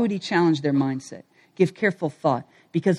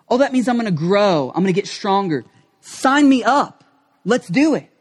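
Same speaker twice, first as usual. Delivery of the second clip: eager resolve. Retold or imitated. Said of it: "Now I look at that and go".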